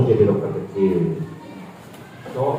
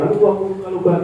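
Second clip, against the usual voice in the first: mock shout; 8 semitones higher, faster than usual. Shown as a demonstration.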